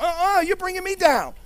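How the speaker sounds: mock despair. Preacher acts out a believer brought down, high mock wail. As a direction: ham up a whiny no no no. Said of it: "You're like".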